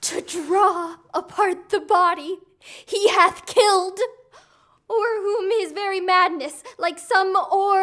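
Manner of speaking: tearful report. Acted. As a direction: voice catching with tears. Queen reports the killing, weeping.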